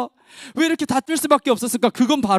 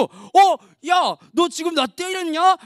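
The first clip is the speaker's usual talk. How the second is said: raised, higher mock protest; pretend-outraged challenge; acted indignant outburst; 4 semitones higher, slower than usual. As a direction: react like a kid just hit. Acted quarrel after being hit.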